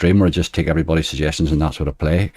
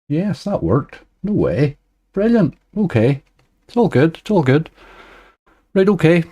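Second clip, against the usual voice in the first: bright, much higher burst of delight as the setup works; delighted surprise; 9 semitones higher than usual. Real, not acted. Streamer thrilled his casino setup works, higher and excited. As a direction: celebrate the thing finally working.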